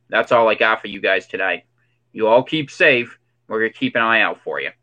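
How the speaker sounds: lightly put-on conspiracy theorist voice, in short spaced phrases; conspiracy guy. Conspiracy guy signing off a warning to viewers, in a lightly put-on voice. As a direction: deliver it as a conspiracy guy, pausing between punchy warnings. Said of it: "the conspiracy guy had to come on".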